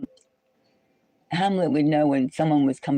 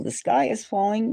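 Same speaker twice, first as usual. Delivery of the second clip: Chicken Little; 6 semitones higher than usual. Retold or imitated. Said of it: "like Chicken Little".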